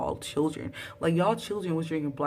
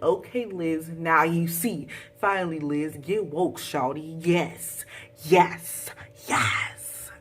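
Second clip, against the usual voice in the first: hyped retweet read; slower than usual. Retold or imitated. Reading her tweet to Liz with hype. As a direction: cheer her on like a hype friend.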